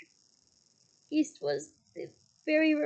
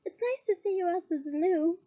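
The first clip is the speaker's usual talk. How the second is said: falsely bright; 3 semitones higher, 3 dB louder than usual. Acted. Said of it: "in a falsely bright voice".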